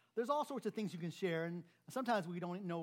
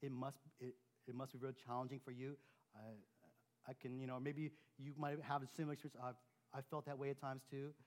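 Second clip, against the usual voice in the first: soft sympathy; 3 semitones lower, 5 dB quieter than usual. Shown as a demonstration. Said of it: "repeat their words".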